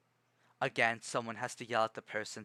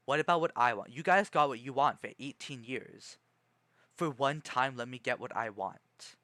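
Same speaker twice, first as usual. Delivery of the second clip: resentful rant; 4 dB louder than usual. Retold or imitated. Imagined rant at family.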